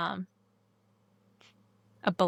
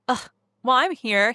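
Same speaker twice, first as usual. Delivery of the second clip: reluctant sigh of a reply; grudging; 2 semitones higher, 3 dB louder than usual. Shown as a demonstration. How the boyfriend does not say it, grudging. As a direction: say it like it's a chore. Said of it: "he doesn't say it like".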